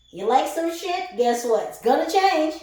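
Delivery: high and loud, driving the point home; a loud, high-pitched reading-style proclamation; emphatic loud call. Real, not acted. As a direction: proclaim it to the crowd. Hammering home a point to viewers.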